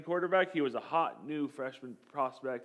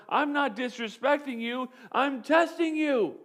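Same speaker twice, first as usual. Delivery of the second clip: firm coach reply; 9 semitones higher, 4 dB louder than usual. Retold or imitated. Coach correcting his angry quarterback, firm and emphatic. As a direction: set him straight, hit testing.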